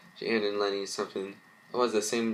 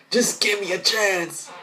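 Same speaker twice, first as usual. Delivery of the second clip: begged much higher, louder and slow; desperate plea; 11 semitones higher, 5 dB louder than usual. Acted. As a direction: cry out for mercy, drawn out. Arsonist begs louder.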